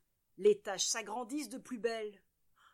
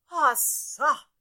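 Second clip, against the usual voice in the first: loud shocked gasp, higher; shocked cry; 4 semitones higher, 11 dB louder than usual. A narrator's reading. Mother sees muddy piglet, loud shocked cry. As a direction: choke out a scandalized exclamation. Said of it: "s'écrie madame Propre".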